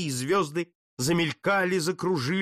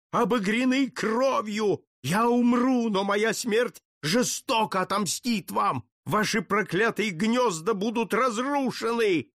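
thundering curses; 7 semitones higher than usual. Acted. Condemned count roars curses at the Jesuits, high and furious. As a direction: hurl curses at the monks. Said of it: "Громовым голосом он старался заглушить".

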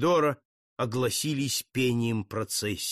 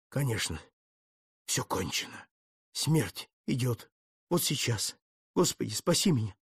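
terrified whisper; 2 semitones lower, 4 dB quieter than usual. Acted. Doomed count whispers to himself, soft with dread. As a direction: breathe out the fear as death comes.

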